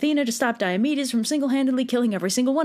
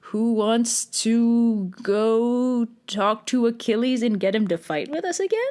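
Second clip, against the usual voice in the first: flustered backpedal; slower than usual. Acted. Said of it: "So Agamemnon's like".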